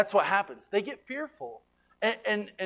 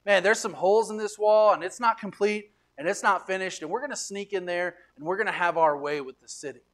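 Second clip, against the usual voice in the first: gloating threat; 5 semitones higher, 3 dB louder than usual. Retold or imitated. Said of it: "Sanballat said".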